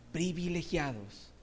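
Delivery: slow, drawn "privilegiados"; slow emphasis. Shown as a demonstration. Preacher repeating "privilegiados" slowly for weight. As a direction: savour each syllable of "privilegiados". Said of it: "repeated word, slower".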